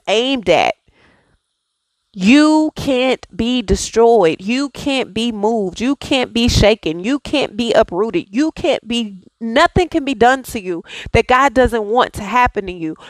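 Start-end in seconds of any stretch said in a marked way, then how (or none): 2.1-10.8 slow, deliberate declaration; slow affirmation. Acted. Speaker affirming to her viewers, slow and deliberate. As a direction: declare each line slowly, like a mantra.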